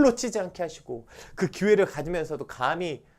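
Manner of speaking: prayer building to loud and high; fervent prayer. Real, not acted. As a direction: pray with rising fervour. (점점 뜨거워지는 통성 기도)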